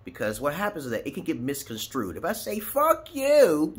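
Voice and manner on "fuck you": "Fuck you" shouted high and loud; "Fuck you" yelled much higher and louder; angry fuck you. Shown as a demonstration. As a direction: bark "Fuck you" as a real insult. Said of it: "you don't know how, which way I'm saying".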